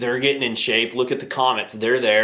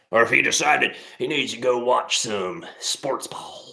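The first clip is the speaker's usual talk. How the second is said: whispered aside; 2 semitones higher than usual. Acted. Teasing aside about Billy.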